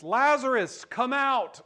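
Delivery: Jesus calling "Lazarus, come out!" upward and loud. Acted. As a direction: call him out of the tomb. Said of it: "calls out in a loud voice".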